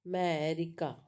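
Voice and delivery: "America" with "me" set apart and lengthened; long stressed vowel. Shown as a demonstration. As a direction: dwell on the "me" in "America", then fall. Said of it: "So that vowel sound is speak loudly".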